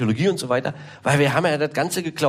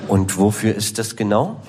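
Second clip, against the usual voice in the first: puzzled pharmacist; 9 semitones lower than usual. Retold or imitated. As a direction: hesitate like a confused expert. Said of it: "so ein studierter Apotheker".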